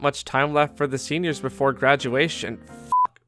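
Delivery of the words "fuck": sudden outburst. Real, not acted. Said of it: "the emotional climax".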